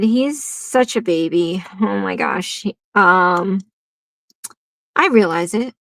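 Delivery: ordinary delivery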